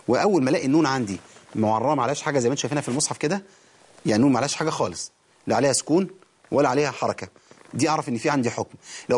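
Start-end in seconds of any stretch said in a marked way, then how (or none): none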